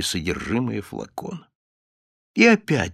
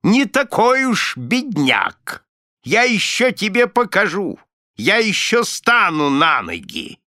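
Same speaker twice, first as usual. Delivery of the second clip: much higher, louder, slow croaking boast; spiteful old miser croaking his boast; 9 semitones higher, 5 dB louder than usual. Acted. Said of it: "раздался каркающий голос Николаса".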